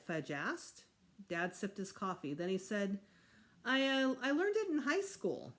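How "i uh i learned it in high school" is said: flustered dad. Acted. Dad caught out by the child.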